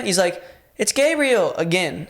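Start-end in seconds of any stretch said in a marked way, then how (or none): 0.8-1.5 higher, timid stranger voice; same meek tone. Retold or imitated. Intruder answers from the stairs, meek higher voice. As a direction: repeat it in that small voice. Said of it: "same tone".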